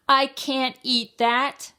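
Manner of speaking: high, slow, loud wail of complaint; storybook child's protest, no real tears; mock crying. A narrator's reading. Child refusing the egg at breakfast, mock crying. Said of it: "I cried and cried and said".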